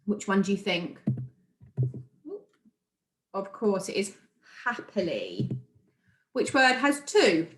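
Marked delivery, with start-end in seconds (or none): 4.7-5.5 low, soft "happily" in three beats, hap-pi-ly; syllable by syllable. Shown as a demonstration. Teacher giving the quiz answer, "happily" in separate syllables. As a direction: settle on "happily", each chunk distinct. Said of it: "pronouncing the words clearly".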